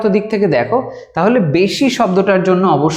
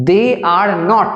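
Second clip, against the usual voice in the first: very slow, each word drawn out; slow dictation; much slower than usual. Shown as a demonstration. Teacher dictating to students, very slow and spaced. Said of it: "তো এখানে লেখা যাক".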